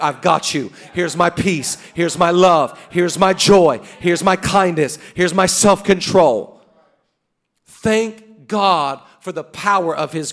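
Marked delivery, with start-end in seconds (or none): 0.0-6.6 loud, measured promises as God; booming but kindly voice of God; God's reassuring voice. Acted. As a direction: hand out each gift one by one. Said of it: "And God's like".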